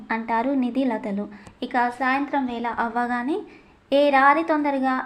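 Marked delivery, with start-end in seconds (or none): 3.9-4.9 loud call to hurry up; calling her roommates to hurry, raised voice. Acted. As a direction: shout across the room for them to come.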